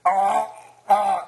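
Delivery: halting, hesitant politician with stretched uhs; Gordon McBroom impression. Comedian mimics the prime minister's halting speech. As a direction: drag out the uhs like a fumbling leader. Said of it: "to do an impression of that".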